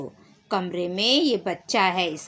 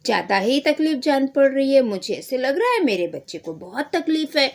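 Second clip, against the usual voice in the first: frightened mother; 4 semitones higher than usual. Acted. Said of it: "डर जाती है बच्चे को लेके".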